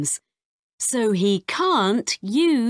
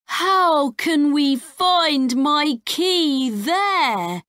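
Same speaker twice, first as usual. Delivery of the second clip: put-on higher, slow, anxious child; worried boy; 7 semitones higher than usual. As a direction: ask it like a fretting kid. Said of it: "asks Max".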